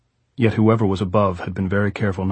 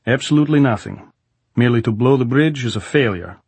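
raised commanding general's voice; soviet soldier; 4 semitones higher, 5 dB louder than usual. Acted. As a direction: bark it like a general. Goltz lectures Jordan.

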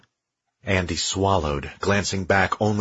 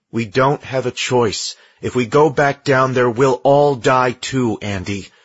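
muffled behind a mask; 4 semitones higher, 6 dB louder than usual. A narrator's reading. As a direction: speak through a mask, louder. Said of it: "Her muffled voice came from inside the mask".

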